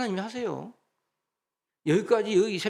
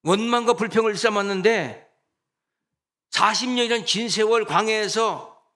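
louder, driving sermon climax; fiery preaching; 4 semitones higher, 5 dB louder than usual. Acted. Pastor warning the congregation, preaching louder at full force. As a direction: drive the warning home from the pulpit.

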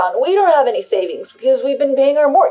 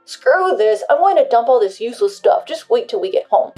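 angry; 9 dB louder than usual. Acted. Husband storms off threatening.

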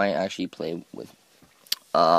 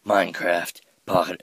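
louder, odd announcing of the title; put-on weird voice; 6 dB louder than usual. Shown as a demonstration. Gamer trying out a way to talk, weird voice. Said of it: "I should talk like this".

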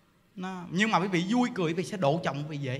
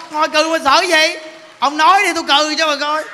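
louder, higher mocking brag; bragging mockery at full volume; mock boast; 6 semitones higher, 9 dB louder than usual. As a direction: throw the boast out like a show-off.

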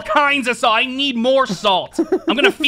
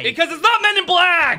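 mock outrage; 6 semitones higher than usual. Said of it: "furious right now".

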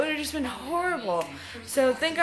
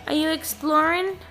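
pet talk; 5 semitones higher, 4 dB louder than usual. Real, not acted. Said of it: "repeats question to pet".

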